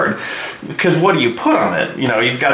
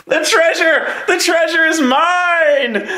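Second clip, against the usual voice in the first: mock gloating; slower than usual. Gloating over won treasure.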